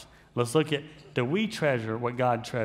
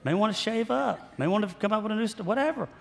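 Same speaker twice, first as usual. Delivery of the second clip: mock complaint; 6 semitones higher than usual. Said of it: "And I'm like".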